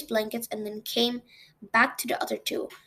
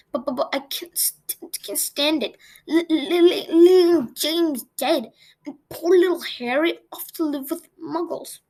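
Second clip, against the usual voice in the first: stammering and sobbing, higher; crying; 4 semitones higher than usual. Acted. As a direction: weep through the words, breaking up. Hagrid weeping over Harry.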